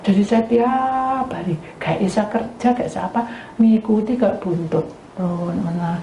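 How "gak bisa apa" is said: ordinary delivery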